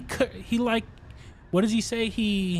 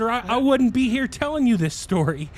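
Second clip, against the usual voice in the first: imitating Charlie Murphy; 7 semitones higher, 4 dB louder than usual. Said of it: "He said".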